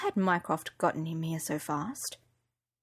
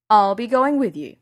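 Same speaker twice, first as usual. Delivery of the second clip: firm Yorkshire bodyguard, louder; Yorkshire accent; 2 semitones higher, 8 dB louder than usual. Acted. Bodyguard insisting on going along, firm Yorkshire accent. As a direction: say it in Yorkshire, not asking. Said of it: "He had a Yorkshire accent".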